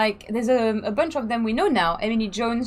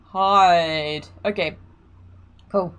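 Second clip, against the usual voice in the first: Australian accent; 5 semitones lower, 4 dB louder, much slower than usual. Shown as a demonstration. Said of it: "So the Australian accent is back".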